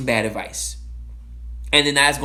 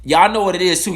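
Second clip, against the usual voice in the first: normal talking voice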